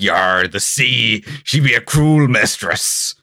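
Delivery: lightly voiced old sea dog, slowed down; a hint of a gruff pirate drawl; grizzled old sailor. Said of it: "is grizzled old sailor being like".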